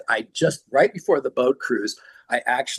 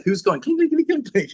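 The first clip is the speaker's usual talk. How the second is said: imitated clinks. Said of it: "I was like".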